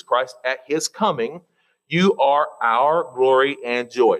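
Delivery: slow, measured scripture reading; slow reverent Bible reading. Acted. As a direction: read the verse with reverence.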